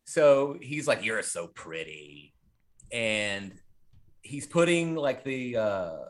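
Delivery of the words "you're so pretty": slow, low and softer, lingering; lightly voiced killer, drawn out low; hint of a creepy killer. Killer to the girl strapped to his table, slow creepy murmur.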